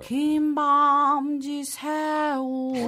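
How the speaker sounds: Impression of a singer. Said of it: "모창이나 이런 거 좀 잘할 수 있는 거".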